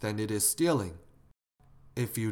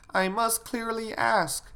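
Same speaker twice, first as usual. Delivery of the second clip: put-on high, slow child's recitation; little girl reciting; 11 semitones higher than usual. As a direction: finish the saying like a small child, slowly. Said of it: "the little girl continued".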